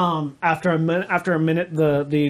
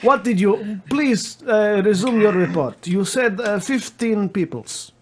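Comrade voice; 4 semitones higher than usual. Acted. Comrade resumes the call.

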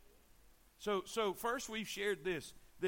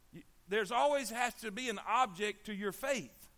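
louder, raised preacher's voice; emphatic preaching; 4 semitones higher, 5 dB louder than usual. Real, not acted. Preacher challenging listeners on where their faith is, emphatic preaching. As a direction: drive each point home to the congregation.

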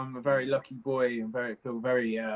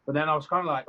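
ordinary delivery

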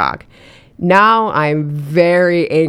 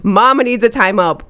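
exasperated; 4 semitones higher than usual. Shown as a demonstration. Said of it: "I know I'm about to lose it".

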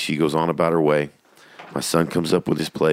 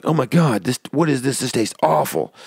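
tag; 7 semitones higher than usual. Retold or imitated. Son acting disgusted by his snack.

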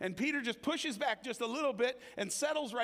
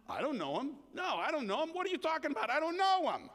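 denial; 6 semitones higher than usual. Retold or imitated. Peter denies the Lord.

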